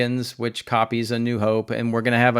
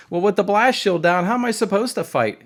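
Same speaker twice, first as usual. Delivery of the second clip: mocking Sabine; 7 semitones higher than usual. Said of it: "Sabine says something like".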